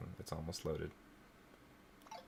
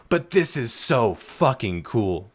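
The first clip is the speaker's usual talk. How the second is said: dawning joy; 2 semitones higher, 6 dB louder, slower than usual. Real, not acted. Still thrilled.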